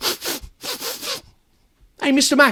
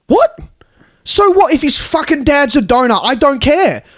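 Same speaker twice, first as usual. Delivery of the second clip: angry outburst; 5 semitones higher, 3 dB louder than usual. Acted. Angry phone argument.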